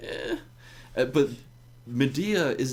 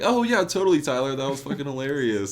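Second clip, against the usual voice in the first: fake sycophantic praise. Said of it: "everyone's like".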